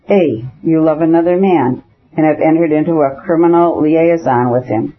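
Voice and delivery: mild emphasis on "criminal", mimicking a husband; stress on CRIMINAL. A narrator's reading. Wife mimicking her husband's reproach, "criminal" lightly stressed. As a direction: lean a little on the word "criminal". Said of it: "Mimicking her husband, she threw an emphasis on the word criminal".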